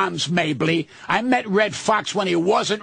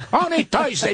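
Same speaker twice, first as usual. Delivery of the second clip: mocking repeat; 6 semitones higher than usual. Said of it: "I love it when they say".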